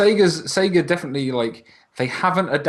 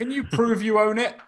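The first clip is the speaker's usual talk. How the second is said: mock suspicious question; 12 semitones higher than usual. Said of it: "And they're like".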